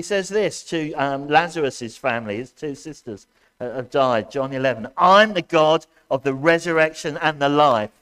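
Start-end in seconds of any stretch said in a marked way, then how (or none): 5.0-7.9 shouting. Acted. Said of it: "am I shouting a lot".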